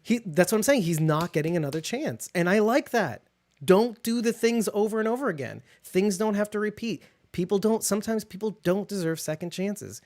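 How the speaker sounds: real worked-up insistence; worked-up, near yelling. Real, not acted. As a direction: hammer the point home, carried away. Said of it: "it sounds like I'm yelling at you".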